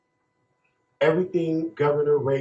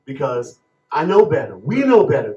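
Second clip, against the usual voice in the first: getting emotional; 6 dB louder than usual. Real, not acted. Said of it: "I'm getting a little emotional here".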